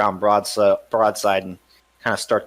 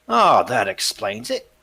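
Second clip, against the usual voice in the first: mocking smuggler; 6 semitones higher than usual. Smuggler teases the ranger about his reputation. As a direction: needle the ranger with a laugh.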